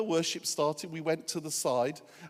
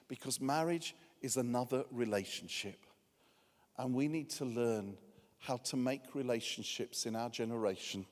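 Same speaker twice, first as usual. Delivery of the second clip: soft, low, earnest preaching; intimate sermon; 5 semitones lower, 8 dB quieter than usual. Acted. Pastor quietly urging single listeners to embrace celibacy, soft earnest sermon. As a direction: draw them in gently with sincere conviction. Heartfelt closing appeal to congregation.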